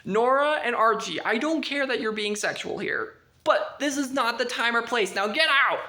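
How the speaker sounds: regaño fuerte a través de la puerta cerrada; padre gritando. Retold or imitated. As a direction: grita como un padre furioso que echa a los chicos. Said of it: "he literally is yelling at them".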